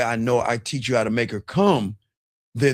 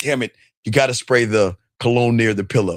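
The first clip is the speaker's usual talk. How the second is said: normal talking voice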